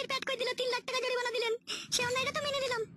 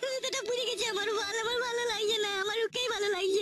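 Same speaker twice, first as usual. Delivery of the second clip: mock lovesick lament; 2 semitones lower than usual. Lovesick woman lamenting her man.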